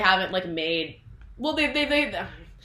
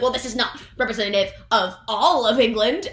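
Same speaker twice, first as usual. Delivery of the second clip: louder, raised royal voice; lightly voiced queen, dismissive; haughty Queen; 4 semitones higher, 5 dB louder than usual. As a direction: dismiss it coldly. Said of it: "the Queen's like".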